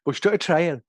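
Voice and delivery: attempted Geordie accent; a token bit of Geordie. Shown as a demonstration. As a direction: have a rough go at Geordie. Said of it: "only bit of Geordie I can do".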